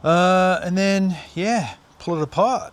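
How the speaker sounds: straining grunts while lifting; effortful, pushing through the strain. Real, not acted. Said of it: "so if I make some old man noises".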